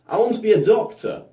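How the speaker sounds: eager blurt. Retold or imitated. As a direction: blurt it out like an excited kid. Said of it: "I blurted out".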